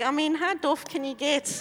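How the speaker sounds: laughing. Real, not acted. Mocking herself, laughing.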